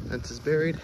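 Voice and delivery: talking while out of breath; heavy breathing. Real, not acted. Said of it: "Apologize for my breathing".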